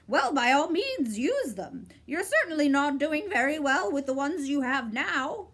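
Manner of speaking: high, clipped bird's reply; sharp bird voice. A narrator's reading. Bird cutting Milo off, high and sharp. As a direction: snap it out like a bird.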